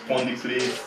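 lightly put-on Jamaican patois; mock Jamaican accent. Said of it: "can you speak more in that Jamaican accent".

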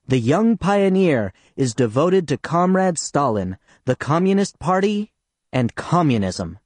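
proud schoolboy recitation, projected clearly; loud and clear. Retold or imitated. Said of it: "loud and clear".

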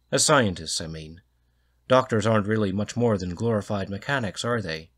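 loud, hearty Scots or Irish brogue; pompous Scots or Irish guest lecturing about doctors; heavy Scots or Irish accent. Acted. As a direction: hold forth in a thick Irish or Scots lilt. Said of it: "his accent is Scots or Irish, but it's heavy".

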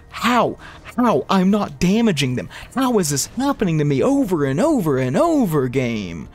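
why me, thrown at the game; exasperated outburst. Real, not acted. Streamer yells at the game in disbelief.

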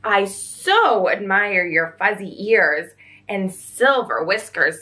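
gentle giant unicorn. Acted. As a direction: speak low and kind, like a grand unicorn. Unicorn voiced by narrator.

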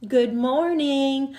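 put-on teacher greeting a child at the thumb kiss; warm greeting. Shown as a demonstration. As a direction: greet each child gently. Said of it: "you touch their thumb and you go".

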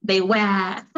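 British "they were", R dropped into a schwa; non-rhotic British "were"; British accent. Shown as a demonstration. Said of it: "Por ahí no mencionan la R".

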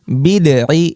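বিদঈ with a light d in place of heavy dad; mistaken plain dal. Shown as a demonstration. Teacher shows learners the mistake, dad turned into dal. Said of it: "এটা বললে কিন্তু ভুল হবে".

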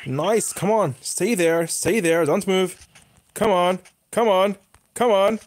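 will the target to hold still, pressing harder at the end; urgent urging. Real, not acted. Gamer begging the target not to move, urgent urging.

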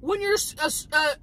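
high, giggly and stumbling; laughing high. Real, not acted. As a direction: laugh through the words. Laughing, losing the word.

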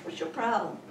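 hectoring rebuke that starts loud and high, then drops; mock scolding. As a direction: imitate someone berating the fearful, rapid-fire. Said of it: "banging them on the head and saying".

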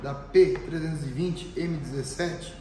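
hoarse, cracking voice; cracked voice. Real, not acted. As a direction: speak through a cracked, raspy voice. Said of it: "minha voz de taquara rachada".

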